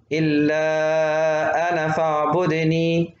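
slow chant with short أنا before فاعبدني; wasl, alef dropped. Shown as a demonstration. Teacher demonstrating the joined verse, short أنا. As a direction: link أنا briefly into فاعبدني. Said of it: "بشيل الألف وصلًا".

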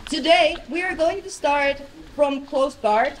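ordinary delivery

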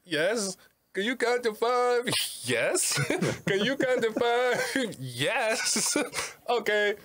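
put-on high-pitched, childlike prank-call voice; Special Ed prank caller. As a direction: pester them in a high, insistent goofy voice. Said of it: "he used to call people, go".

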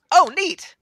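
high, bright-eyed newborn blob; high innocent ooze creature voice; high goofy blob voice. Acted. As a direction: chirp it like a friendly new creature. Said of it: "He's like".

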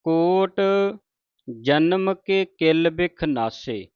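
slow, with a full stop after ਨਾਸੇ; ਨਾਸੇ ਤੇ ਰੁਕੋ. Shown as a demonstration. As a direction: recite slowly and rest on ਨਾਸੇ. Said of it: "ਨਾਸੇ ਤੇ ਆਣ ਕੇ ਸੰਗਤ ਜੀ ਰੁਕਣਾ ਹੈ".

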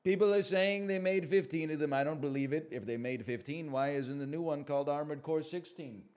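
normal talking voice

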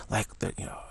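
whispered under your breath; hushed. Shown as a demonstration. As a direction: whisper it like someone might overhear. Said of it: "We speak in hushed tones".

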